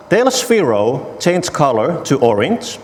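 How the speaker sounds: slow, careful enunciation of the whole command; careful pronunciation. Real, not acted. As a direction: tell Sphero to change color, slowly and carefully pronounced. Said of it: "I'll try my best to pronounce".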